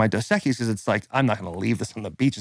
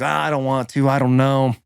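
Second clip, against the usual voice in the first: reluctant buddy. Retold or imitated. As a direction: imitate a friend dragging his feet. Buddy reluctant in retold dare.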